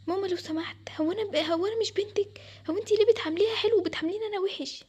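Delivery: high, aggrieved appeal; hurt pleading. Acted. Daughter asking mother why she is treated worse, hurt. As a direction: plead as the wronged child.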